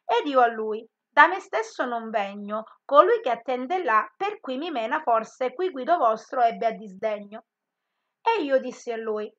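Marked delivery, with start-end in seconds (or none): 0.1-7.5 measured reading of Dante's verse; poem recital. Acted. Teacher reciting Inferno verses to the class, solemn. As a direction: recite the tercet with weight.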